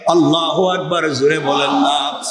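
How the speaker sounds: rhythmic chant with stretched endings; intoned sermon storytelling. Acted. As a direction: tell the tale in a preacher's cadence. Preacher intones frog's story.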